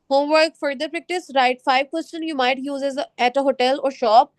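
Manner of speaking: slow, measured reading of slide text; unhurried classroom read-aloud. Acted. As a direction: read each prompt deliberately to the class. Reads homework slide slowly.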